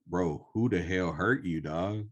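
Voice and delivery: exclaiming in disbelief with swooping pitch; mock incredulous. Reacting to his bitter talk, mock incredulous. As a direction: imitate someone taken aback.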